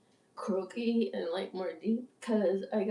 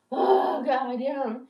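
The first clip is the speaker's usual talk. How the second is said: fed-up waitress; 3 semitones higher, 5 dB louder, much slower than usual. Acted. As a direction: act out being sick of it all. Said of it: "fucking sick of it all".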